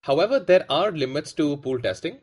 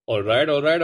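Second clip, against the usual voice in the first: Matthew McConaughey. Retold or imitated. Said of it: "a terrible impression of Matthew McConaughey".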